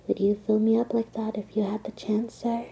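coy whispered invitation; seductive whisper. Acted. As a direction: tempt him in a whisper. Seducing Doc directly.

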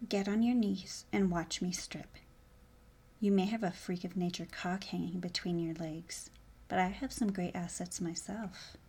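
breathy, unvoiced sultry whisper; seductive whisper. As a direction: whisper it close to his ear.

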